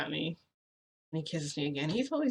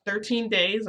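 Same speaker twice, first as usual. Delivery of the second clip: higher, louder disbelieving echo; shocked question; 5 semitones higher, 8 dB louder, slower than usual. Retold or imitated. Boyfriend repeats her answer, shocked disbelieving rise.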